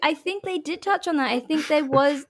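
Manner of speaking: talking through giggles; laughing while trying to speak. Real, not acted.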